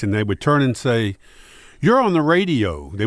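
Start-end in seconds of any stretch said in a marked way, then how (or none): 1.8-2.9 high-pitched mock excitement; imitated fan recognition. Stranger spotting a radio host by voice, mock-excited. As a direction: play a stranger lighting up on recognising a voice.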